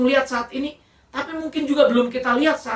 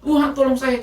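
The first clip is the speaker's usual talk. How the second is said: retold panicky cry, a bit louder; louder mock-desperate prayer from the well; panicked plea; 3 semitones higher, 4 dB louder than usual. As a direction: beg God for help as the water rises. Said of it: "Cuma itu yang dia bisa bilang".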